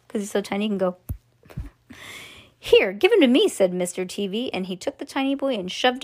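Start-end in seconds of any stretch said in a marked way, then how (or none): 2.6-3.5 high, loud, impatient demand; father's order. Acted. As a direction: demand it sharply. Father grabs tantruming boy.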